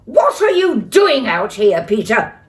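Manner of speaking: cross mum shouting at her son; angry scream. Acted. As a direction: scold him hard. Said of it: "screamed Mum".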